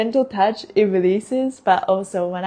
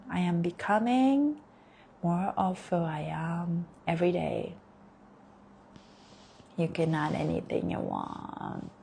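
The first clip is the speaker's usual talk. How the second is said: guided affirmations; 3 dB quieter than usual. Acted. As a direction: lead them gently through each affirmation. Leads guided affirmation meditation.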